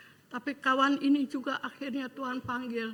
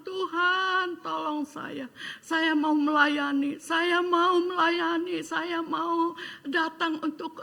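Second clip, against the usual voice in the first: louder, slow, pleading with God; pleading prayer; 5 semitones higher, 4 dB louder, slower than usual. Retold or imitated. Retelling his prayer to God to serve the lost, loud and pleading. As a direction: cry out the promise to serve, drawing each word out.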